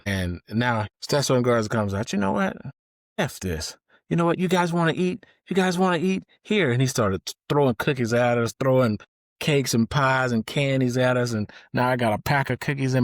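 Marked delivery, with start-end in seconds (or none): 2.1-6.7 drill instructor outburst. Retold or imitated. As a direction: bark it like a fed-up drill instructor. Drill instructor yelling at recruits.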